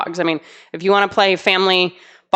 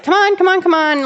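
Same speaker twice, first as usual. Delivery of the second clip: higher calls to a runaway dog; mock owner calling her loose dog; 8 semitones higher than usual. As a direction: call the dog back over and over. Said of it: "calling the dog back a few times".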